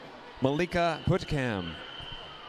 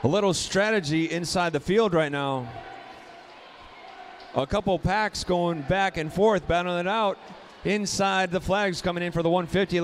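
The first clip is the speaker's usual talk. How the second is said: excited race call; 4 semitones higher than usual. Real, not acted. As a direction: call the finish with building excitement. Exciting close race finish call.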